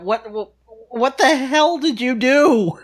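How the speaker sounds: high-pitched, drawn-out shout of disbelief; acted shout. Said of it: "and I just shout".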